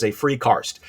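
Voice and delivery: "cast" garbled as "carst", an r before st; blended slip. Retold or imitated. Speaker repeating the slip, "cast" said as "carst". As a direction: mash card into "cast" as "carst". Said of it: "card and cast at the same time".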